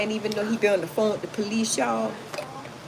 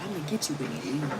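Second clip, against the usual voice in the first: mock threat; 5 semitones lower, 9 dB quieter, faster than usual. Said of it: "putting up my fists like that".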